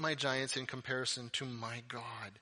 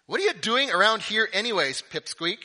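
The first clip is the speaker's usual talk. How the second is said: loud, high scolding; angry older brother; 7 semitones higher, 11 dB louder than usual. Acted. Oldest brother Eliab to David among the men, angry. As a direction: tell off a pesky little brother. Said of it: "he gets angry".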